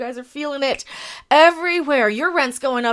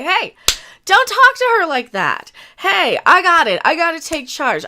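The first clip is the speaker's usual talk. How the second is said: protective man; 5 semitones higher, 6 dB louder than usual. Retold or imitated. Voices protective man confronting.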